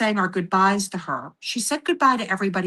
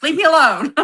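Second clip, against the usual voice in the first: mock loud plea; 7 semitones higher, 8 dB louder than usual. Pleading with mother's spirit.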